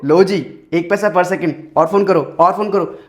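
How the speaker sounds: low-pitched mock ad pitch; mimicked phone ad.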